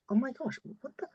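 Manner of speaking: rising into a loud, high disbelieving outburst; suddenly realizing the mess you're in; shocked realization. Retold or imitated. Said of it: "you're like".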